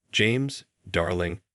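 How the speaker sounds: sugary interruption; wife cuts in on her husband, syrupy; cutting in sweetly. Acted. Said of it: "Victoria cut in before I could respond".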